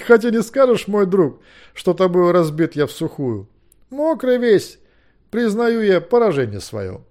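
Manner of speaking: loud, high, declaimed in verse; ringing, high-pitched declamation; cheerful theatrical concession. Acted. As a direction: concede defeat grandly and good-naturedly. Soaked loser cheerfully concedes defeat.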